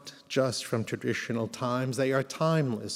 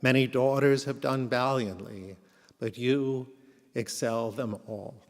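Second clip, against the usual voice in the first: solemn. Acted. Reads Eshet Chayil at memorial.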